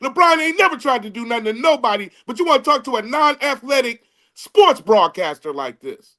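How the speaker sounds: heated, insistent arguing; real exasperated pushback; worked-up. Real, not acted. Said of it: "He really sound like the mad rapper right now".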